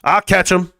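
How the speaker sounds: put-on high growl then eager kid voice; imitating his kid self. Streamer acting out chasing birds at lunch, high kid growl. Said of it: "I'm out here".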